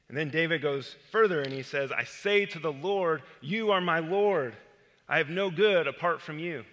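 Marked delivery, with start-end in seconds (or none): 1.9-6.6 louder, firm declaration of the verse; bold plea. Shown as a demonstration. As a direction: proclaim it boldly to God. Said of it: "it is a bold plea".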